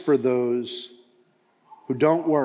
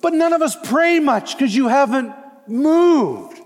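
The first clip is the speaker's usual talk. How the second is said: a hint of pleading prophet, higher; Isaiah's lament; 12 semitones higher, 5 dB louder than usual. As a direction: confess it with a pained, lifted voice. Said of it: "he's going".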